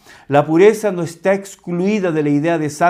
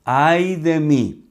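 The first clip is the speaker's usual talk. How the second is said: slow lament; much slower than usual. Retold or imitated. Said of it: "Es una exclamación".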